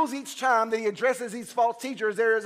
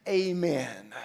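solemn Bible reading, slowing toward the amen; scripture reading. Acted. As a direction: read the passage with solemn weight. Reads scripture before preaching.

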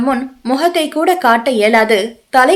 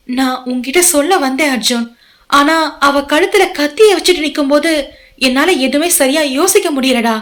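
pleading woman; 3 semitones higher than usual. Acted. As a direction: plead gently with him to listen. Saindhavi explains tearfully.

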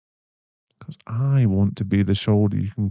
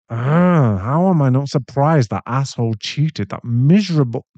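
louder, contemptuous burst at the ex; angry outburst; 3 semitones higher, 5 dB louder than usual. Acted. Boyfriend hearing the ex cheated, angry outburst. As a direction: spit it out, disgusted.

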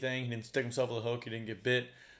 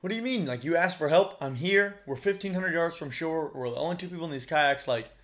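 baffled; 5 semitones higher, 4 dB louder than usual. Retold or imitated. Confused reply to hostile stranger.

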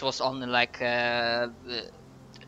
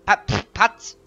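goblin voice; 4 semitones higher, 3 dB louder than usual. Acted. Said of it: "they also say".

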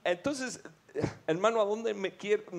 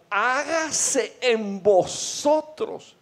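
solemn voice of Jesus; 7 semitones higher, 4 dB louder, much slower than usual. Acted. Quoting Jesus healing the blind.

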